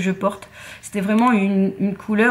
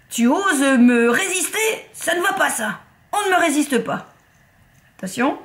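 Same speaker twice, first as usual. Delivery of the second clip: mock menace; 4 semitones higher than usual. Talks to stuck lipstick cap.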